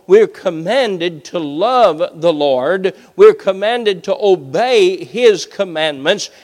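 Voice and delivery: slow, weighty pulpit delivery; emphatic preaching. Real, not acted. Preacher urging the congregation to decide, emphatic preaching. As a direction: press each command home with drawn-out stresses.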